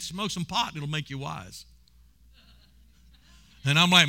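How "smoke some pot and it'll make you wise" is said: devil's tempting voice. Retold or imitated. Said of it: "He said".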